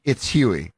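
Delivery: "Huey" said as HYOO-ee; correcting pronunciation. Acted. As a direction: put the y glide into "Huey". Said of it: "if I ever get corrected".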